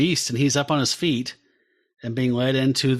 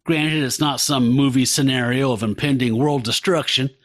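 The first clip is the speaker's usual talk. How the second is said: put-on Southern accent. Podcast host reading a villain's speech to co-hosts, in a light Southern accent. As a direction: read the crime boss's monologue in a mild Southern accent. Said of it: "I'm gonna do a Southern accent like that the whole time".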